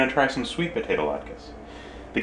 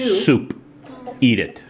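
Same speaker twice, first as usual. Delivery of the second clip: mock command; 5 semitones higher, 3 dB louder, slower than usual. Jokey loud order.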